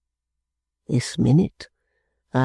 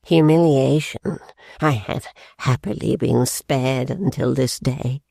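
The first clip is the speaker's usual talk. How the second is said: put-on slow, broken old man; the father mourning his humiliation; grieving father; slower than usual. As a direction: dwell on the shame slowly. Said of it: "Coming out of his fit of grief".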